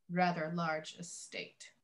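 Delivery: slow, knowing emphasis; suggestive quote. Retold or imitated. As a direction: lean on it with innuendo. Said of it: "and I quote".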